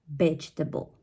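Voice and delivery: Vegetable stressed on VEG, middle reduced; first-syllable stress. Shown as a demonstration. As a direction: say "Vegetable" as VEJ-tuh-bul. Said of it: "stress of the word".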